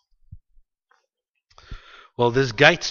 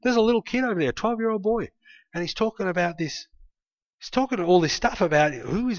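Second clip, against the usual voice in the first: higher, hushed courtier passing on news; a light gossiping whisper-tone, mostly higher; 5 semitones higher, 4 dB quieter than usual. Retold or imitated. Courtier telling the king about the boy, lightly hushed. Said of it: "King Saul heard".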